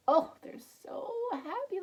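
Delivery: high gushing joy; gushing delight. Real, not acted. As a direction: gush over the babies. Gushing over the picture.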